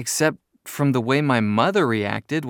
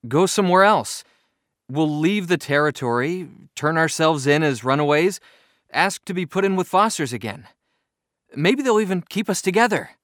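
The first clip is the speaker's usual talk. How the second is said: eager; 5 semitones higher, 4 dB louder than usual. A narrator's reading. Boy pleading hopefully.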